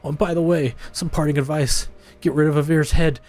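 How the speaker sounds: lightly acted stern game character, lecturing; voiced quest NPC. Streamer voicing an NPC scolding the player, mildly stern.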